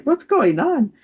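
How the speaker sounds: high, loud, imitated bewilderment; baffled astonishment. Mother retelling daughter peeking out the window, baffled. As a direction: exclaim it as if utterly mystified.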